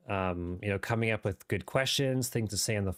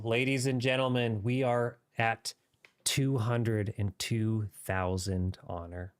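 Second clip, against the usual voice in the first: light British RP gaming voice; modern british accent. Pretend. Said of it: "there's my mini R P voice".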